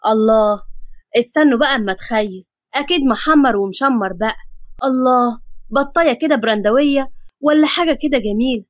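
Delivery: mildly gleeful anticipation; delighted. Acted. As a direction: savour the imagined feast happily. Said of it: "ابتسم أحمد بفرحة وقال".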